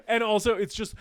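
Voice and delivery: ordinary talk, nothing marked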